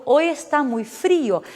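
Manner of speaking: slow Spanish Hoy está muy frío, frío split into two syllables; Spanish model sentence. Shown as a demonstration. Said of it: "eu digo". (frase em espanhol, devagar, frío em duas sílabas)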